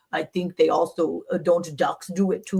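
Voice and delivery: lightly imitated Russian accent. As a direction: quote the doctor in a rough Russian accent. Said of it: "I did his, his Russian accent".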